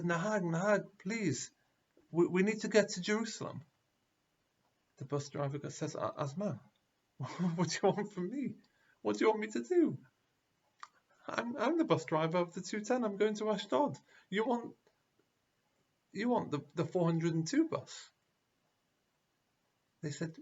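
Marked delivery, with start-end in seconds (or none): 0.0-3.6 higher, louder desperate begging; pleading crowd. Retold or imitated. Crowd begs bus driver. 5.9-18.1 higher, half-laughing driver's protest; a driver throwing up his hands; exasperated bus driver. Retold or imitated. Driver answers the crowd.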